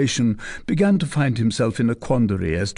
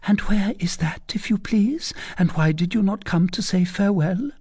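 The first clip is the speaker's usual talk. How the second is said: put-on a higher, teasing young lady's voice; coy young lady; 10 semitones higher than usual. A narrator's reading. Young lady teasing the captain, coy and higher. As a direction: play the coy cousin pressing her question. Fleur de Lis questions Phœbus.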